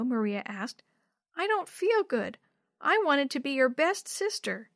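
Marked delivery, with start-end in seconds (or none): 1.4-4.7 put-on high, unhappy little kid voice; small child explaining a hurt. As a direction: confess like a glum little sister.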